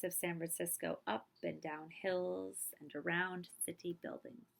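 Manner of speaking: gentle, solemn picture-book reading; reading to children. Acted. Teacher reading the assassination part of the story to children, hushed and solemn.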